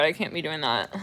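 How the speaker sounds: ordinary delivery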